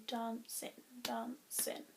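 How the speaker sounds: "dancing" split slowly into two beats, dan-cing; counting syllables. Shown as a demonstration. Teacher showing the two syllables in dancing, slow and split. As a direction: softly break "dancing" after the first syllable. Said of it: "Dancing has one, two".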